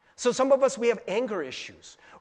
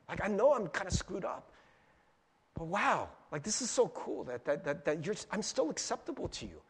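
softer, hushed amazement; soft wondering gratitude; 4 dB quieter than usual. Retold or imitated. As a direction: speak to God in quiet awe. Voicing grateful prayer to God.

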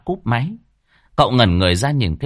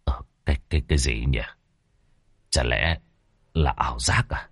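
low, soft, halting mutter; muttering to himself; 7 semitones lower, 6 dB quieter than usual. A narrator's reading. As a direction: mumble it under your breath, unsettled. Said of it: "miệng lẩm bẩm".

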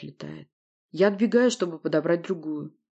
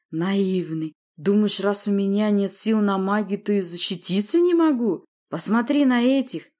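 sneering; 3 semitones higher, 4 dB louder than usual. Acted. Monster sneers in a fight.

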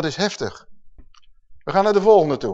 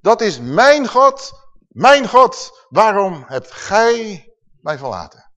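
crying out; 3 semitones higher, 5 dB louder, slower than usual. Acted. Preacher crying out Jesus' words.

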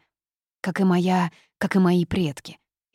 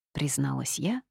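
plain reading voice

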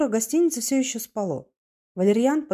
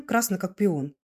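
plain reading voice

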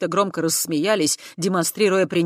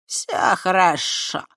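swaggering ease; 3 semitones higher, 3 dB louder, much slower than usual. A narrator's reading. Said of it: "развязно произнёс парень".

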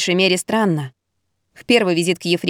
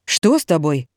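worried, lower caring question; concerned; 4 semitones lower than usual. Acted. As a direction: ask with real concern. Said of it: "озабоченно спросила Ира". (озабоченно)

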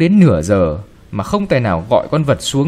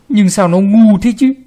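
angry scolding; 8 semitones higher, 5 dB louder than usual. Acted. Grandfather scolding the girl.

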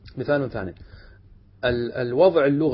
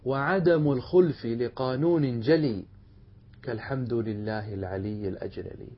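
verse recitation; slower than usual. Acted. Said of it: "يقول في هذه المسألة".

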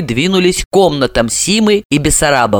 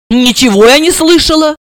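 high, irritated outburst; raised, annoyed voice; suddenly angry; 10 semitones higher, 4 dB louder than usual. A narrator's reading. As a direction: snap crossly. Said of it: "разозлилась вдруг Серафима".

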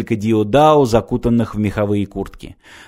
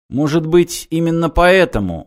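higher questioning "Может быть, именно поэтому?"; questioning answer; 5 semitones higher than usual. A narrator's reading. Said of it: "вопросом ответил Мартин".

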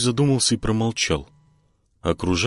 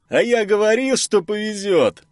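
high, excited, near-dancing glee; gleeful; 14 semitones higher, 4 dB louder than usual. Acted. Filin bouncing by the fire, gleefully high. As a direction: crow it out, bursting with joy. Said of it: "Разве что не приплясывал Филин".

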